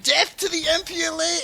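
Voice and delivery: half-strength imitation of a general's war cry; mock battle cry. Retelling the general's charge to friends, mock battle cry. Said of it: "you just see some guy yell".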